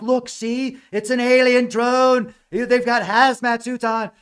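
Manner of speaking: high, loud hammed-up alarm; mock freaking out. Podcasters reacting to hazmat video, mock freak-out. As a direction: imitate an over-excited believer raising the voice. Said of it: "like, freaking out".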